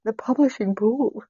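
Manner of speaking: breaking into a high giggle on the last words; trying to say it straight and cracking up; giggling repeat. Real, not acted. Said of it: "I'm losing it".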